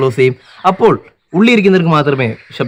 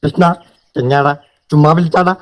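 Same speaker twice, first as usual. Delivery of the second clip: Vinayakan impression; 3 semitones higher than usual. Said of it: "Vinayakan ചേട്ടന്റെ ശബ്ദം".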